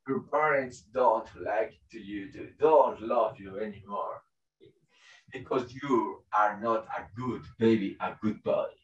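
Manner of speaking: low, hushed inner voice; ego. Acted. Ego turns the baby against parents, hushed. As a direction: murmur it low and soft into the child's mind. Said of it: "appears saying this".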